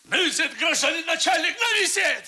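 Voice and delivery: high laughing dictation; bitter laugh. Acted. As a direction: laugh it out, half broken. Suspect laughs bitterly while dictating.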